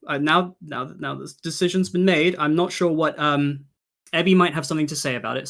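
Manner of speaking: excited. Real, not acted. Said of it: "I've gotta be honest".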